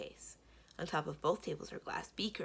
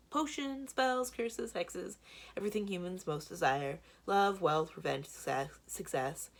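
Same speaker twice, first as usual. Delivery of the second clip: showman villain; 4 semitones higher, 4 dB louder than usual. Acted. Blue's villain voice.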